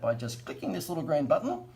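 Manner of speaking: lilting school teacher instruction; sing-song teacherly lilt. Real, not acted. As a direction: explain it brightly like a school teacher. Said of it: "Sound like a school teacher".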